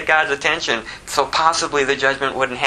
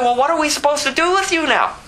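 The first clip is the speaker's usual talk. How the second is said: higher, pleading question; desperate sailor; 11 semitones higher than usual. Acted. Sailor asks Jonah what to do now, high pleading voice. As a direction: ask it like you're at your wits' end.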